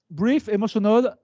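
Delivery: careful, slow English pronunciation; French teacher showing off English accent. Real, not acted. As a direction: read it out slowly in a proud English accent. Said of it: "Je suis assez fier de mon accent".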